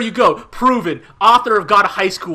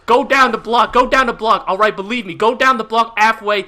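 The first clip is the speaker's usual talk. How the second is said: bad New York accent. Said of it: "extremely bad New York accents".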